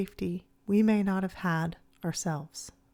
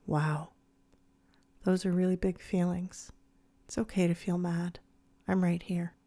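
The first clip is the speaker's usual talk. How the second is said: lowered voice. Acted. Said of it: "you lower your voice and say".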